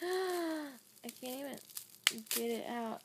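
laughing. Real, not acted. Laughing while unwrapping.

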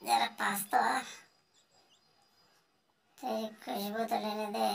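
sly coaxing whisper; whispering cat luring a chick. Acted. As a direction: breathe it to lure the prey close.

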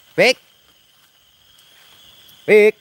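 one loud, high shout of the name; calling out. Real, not acted. Shouting for Taufik while searching at night, loud call. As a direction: yell it so he hears far away.

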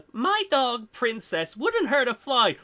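lightly voiced cooing owner; a hint of sweet pet owner; doting dog owner. Imagining the pit bull's owner, light cooing voice. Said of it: "I just imagined".

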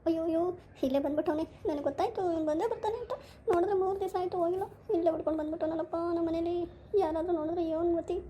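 put-on girl panicking that her boyfriend came home, tearful; panicky crying. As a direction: fret on the edge of tears.

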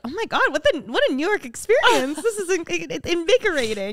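high-pitched, hammed-up tourist thrill; mock exhilaration. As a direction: gush with exaggerated wonder. Hams up tourists' thrilled reaction.

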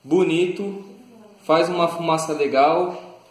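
speaking around hookah mouthpiece; talking with pipe in mouth. Real, not acted. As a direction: lips holding mouthpiece. Seen 2: Capped speaker keeps pink hose tip between lips while talking.

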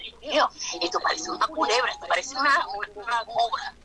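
unvoiced, frightened hush; awed whisper. Preacher retelling meeting the serpent, scared whisper. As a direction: whisper as if the snake could hear. Recalling fear during deliverance.

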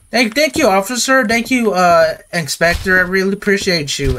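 thanking the inspector in a high nervous rush; nervous high thanks. Real, not acted. Scared player thanking the inspector, high and rattled. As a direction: pitch jumps way up, shaky relief, gushing thanks.

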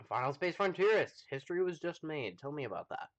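talking while chewing; mouth full. Real, not acted. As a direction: speak through a bite of stew. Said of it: "I'm sorry if you guys can hear me chewing".

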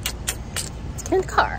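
slow hushed whisper to the camera. Real, not acted. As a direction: whisper it so no one nearby hears. Whispered aside leaving the event.

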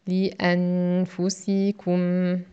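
syllables joined up. Shown as a demonstration. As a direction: blend the five syllables into one word. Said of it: "nous avons cinq syllabes". (syllabes enchaînées plus vite)

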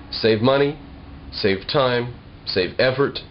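ordinary talk, nothing marked

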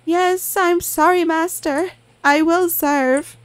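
meek obedient clown; eager-to-please high reply; high servile clown. Acted. Clown answering master.

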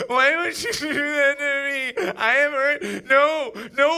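mock wailing. Dumped man hams up tears at a party, mock wailing. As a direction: overplay the heartbreak.

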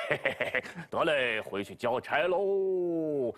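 a lazy pig rehearsing his lies; Zhu Bajie. Acted. Bajie practises fibs for the master, low and smug.

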